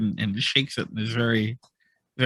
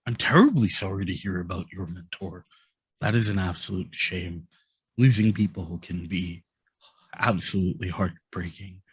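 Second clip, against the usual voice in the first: sympathetic condolence; 5 semitones lower than usual. Acted. Baron Hadley consoling Aksha about the mentor, low and sincere. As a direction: offer sorrow gently.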